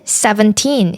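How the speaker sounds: put-on "seventeen" with TEEN stressed. Shown as a demonstration. Teacher modelling numbers for learners, stress on final syllable. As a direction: lean on the end of "seventeen". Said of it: "뒤에 나오는 틴에 강세를 주어서".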